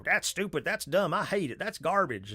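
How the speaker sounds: mock troll with a slight Southern twang; light Southern accent. Streamer imitating internet trolls, lightly Southern-accented. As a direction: let a little Southern accent slip into the griping. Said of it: "falling back in my Southern accent".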